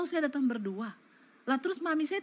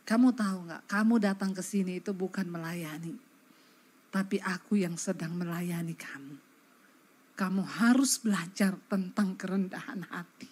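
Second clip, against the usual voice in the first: gentle voice of God; 6 semitones lower than usual. Retold or imitated. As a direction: speak as a tender, patient God. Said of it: "ada suara yang ngomong begini".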